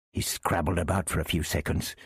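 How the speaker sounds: ordinary delivery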